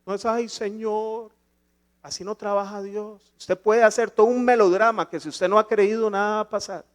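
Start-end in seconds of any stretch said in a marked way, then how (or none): 0.2-1.3 slow, soft, drawn-out mock plea; mock melodramatic prayer. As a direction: imitate a put-on tearful prayer, dragging it out. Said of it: "posiciones melodramáticas orando".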